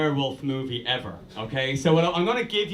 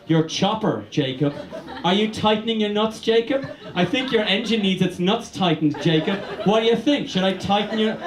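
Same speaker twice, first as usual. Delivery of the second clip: mock teasing Bella; 2 semitones higher than usual.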